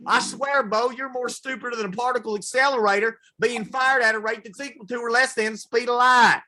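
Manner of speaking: a hammed-up Southern redneck lecturing his buddy Bo. A Southern redneck scolding Bo about quantum physics, in a hammed-up high yell.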